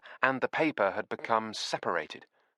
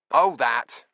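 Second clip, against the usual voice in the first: offhand; 4 semitones higher, 11 dB louder than usual. A narrator's reading. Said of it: "in his best offhand manner".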